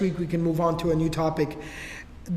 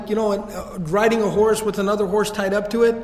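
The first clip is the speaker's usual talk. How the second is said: ordinary talk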